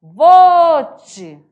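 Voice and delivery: Cuiabá accent Vote; surprised exclamation. Shown as a demonstration. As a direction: gasp out Vote in shock. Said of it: "Essa admiração".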